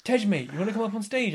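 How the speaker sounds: attempted Dubai-Wales accent. Dee inviting a mate on stage, rough Dubai-Wales accent. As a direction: have another loose go at a Dubai-Wales accent. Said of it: "I can't even do his accent".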